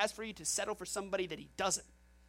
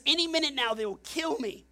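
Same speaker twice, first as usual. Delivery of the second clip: anxious Moses; 6 semitones higher, 5 dB louder than usual. Acted.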